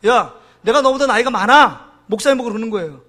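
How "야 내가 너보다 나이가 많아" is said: mildly acted indignation; imitating an offended older man; retold flare-up of anger. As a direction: pull rank, a touch angry. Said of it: "화가 부르륵 나가지고".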